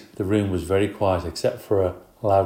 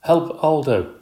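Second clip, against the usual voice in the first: high, loud cry for help; shrieking for help; 7 semitones higher, 5 dB louder, slower than usual. Acted. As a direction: shriek it out to get Aldo's attention. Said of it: "I was shrieking more than squeaking".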